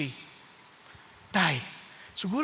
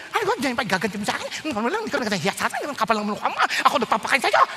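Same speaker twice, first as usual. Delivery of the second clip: mock scolding parent; much faster than usual. Acted scolding of disrespectful child.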